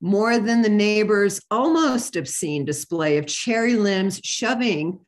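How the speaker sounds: measured, deliberate poetry recital; poem reading. Acted. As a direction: read it out as a poem, phrase by phrase. Reads a poem aloud.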